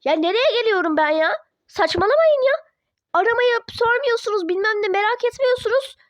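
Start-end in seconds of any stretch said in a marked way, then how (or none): 1.7-6.0 angry outburst. Acted. Daughter snapping at her parents. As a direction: push them away with sudden anger.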